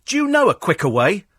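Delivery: high, sharp telling-off through the window; mock-angry passenger calling through the glass; annoyed shout at cabbie. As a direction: yell at the driver to hurry up. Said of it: "tapped on the window and go".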